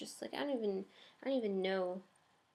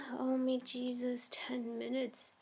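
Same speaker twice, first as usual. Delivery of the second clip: muttered under breath noticing the clock; real private whisper to herself, slower; whispered aside; 3 semitones higher, slower than usual. Real, not acted. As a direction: whisper it to yourself, slow. Notices time running out.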